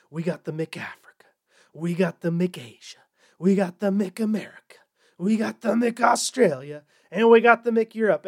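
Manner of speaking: chanted list rising from hushed to loud; mock-triumphant roll call, swelling to a shout; building hype. Recap list built up to climax.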